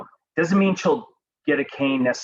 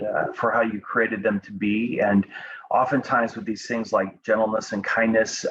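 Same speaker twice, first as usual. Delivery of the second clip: prayer. Acted. Youth leader prays over students, hushed and earnest.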